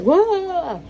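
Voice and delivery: loud, high jolt of surprise; startled cry. Retold or imitated. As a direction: act caught off guard. Being startled.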